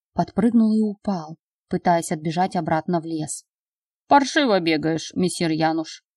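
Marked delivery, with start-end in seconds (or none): 4.1-6.0 выдохнуть после бега; сквозь сбитое дыхание; запыхавшись. Acted. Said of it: "запыхавшись, выдохнул". («Паршиво бегаешь» — запыхавшись)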